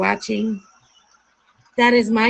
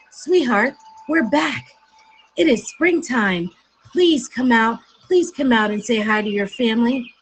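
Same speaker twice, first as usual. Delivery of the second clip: coaxing mother; 3 semitones higher, 4 dB louder than usual. Acted. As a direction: coax the child out sweetly. Mother coaxes duckling out.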